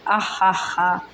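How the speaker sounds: a mild read-aloud hearty laugh, lightly voiced. A narrator's reading. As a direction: let out a short narrated laugh, not too big. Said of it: "जुगनू ने एक ज़ोरदार कहका लगाया". (हल्की-सी ज़ोरदार हँसी)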